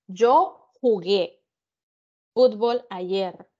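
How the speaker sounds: slow, deliberate repetition; slow confirming. Shown as a demonstration. Teacher slowly confirming the student's translation. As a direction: repeat the student's answer, slowly.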